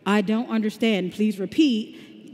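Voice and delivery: slow, mechanical chatbot reply; robotic voice. Retold or imitated. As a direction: read it like a stiff robot that didn't understand you. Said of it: "you break out with the robotic".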